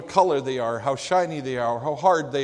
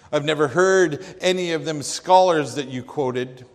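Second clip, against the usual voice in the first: louder folksy jab; old preacher; 3 semitones higher, 7 dB louder than usual. Retold or imitated. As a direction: poke at the professor, unimpressed. Old preacher mocks scholarship.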